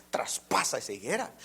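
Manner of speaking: whispered hermano, la voz de Dios; breathy preacher's whisper. Acted. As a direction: drop to a hushed whisper. Whispered line in sermon.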